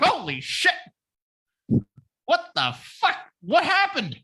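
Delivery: Alfred gasping at the bat suit; shocked Alfred. Retold or imitated. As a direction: squeal it like a stunned butler. Alfred sees Bruce in bat suit.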